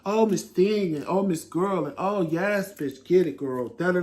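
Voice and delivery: lightly mock the flamboyant diva act; campy sassy voice. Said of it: "I don't have to sit here with Tramel and".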